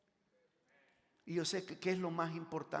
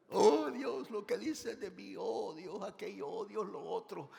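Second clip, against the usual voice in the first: higher, imitating a complaining believer; mock whiny prayer; 5 semitones higher than usual. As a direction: lament like someone feeling sorry for themselves. Acts a complaining believer praying. (creyente quejumbroso imitado, voz más aguda)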